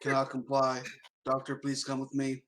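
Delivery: quick, flat machine voice; robot voice. Acted. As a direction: speak like a cold robot. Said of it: "try and talk like a robot".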